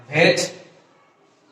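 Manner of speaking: slow ভেজিটেবল broken as vej... tebol; American contracted pronunciation. Shown as a demonstration. Teacher modelling the word in parts, ভেজিটেবল as vej... tebol. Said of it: "উচ্চারণটা হচ্ছে".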